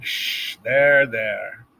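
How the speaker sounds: soothing. A narrator's reading. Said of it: "And Louise said".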